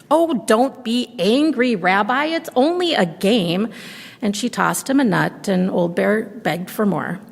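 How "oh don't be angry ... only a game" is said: put-on calm him down like a child; soothing granny. Baba soothes the bear.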